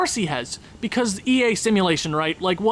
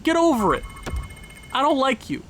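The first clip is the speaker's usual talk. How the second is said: heated snap; 5 semitones higher than usual. Real, not acted. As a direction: snap back at the player. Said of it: "I'm kinda heated right now".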